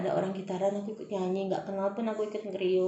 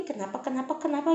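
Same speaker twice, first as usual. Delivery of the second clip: mock nagging; 5 semitones higher than usual. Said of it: "nyala-nyalain gue lagi".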